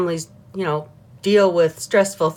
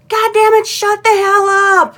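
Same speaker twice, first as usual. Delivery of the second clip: higher, louder mock outburst; half-laughing mock rant, much higher and louder; mock yell; 12 semitones higher, 6 dB louder than usual. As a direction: snap out a hammed-up mood-swing yell. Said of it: "you don't even know why you're yelling".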